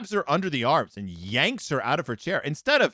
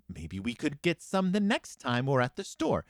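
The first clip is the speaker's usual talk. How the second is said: muttering; 3 semitones lower, 5 dB quieter than usual. Retold or imitated. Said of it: "responds by muttering".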